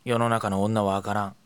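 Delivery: low, soft grumbling sigh; dejected sigh. Acted. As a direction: sigh it out, defeated. Sighing over friend's popularity.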